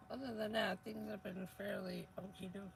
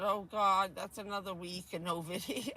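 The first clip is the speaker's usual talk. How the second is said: mock exasperation; 7 dB louder than usual. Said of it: "And I said".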